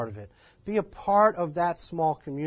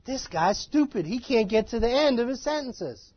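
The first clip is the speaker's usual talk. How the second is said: impatient listeners; 6 semitones higher than usual. Retold or imitated. Acting out impatient northern listeners.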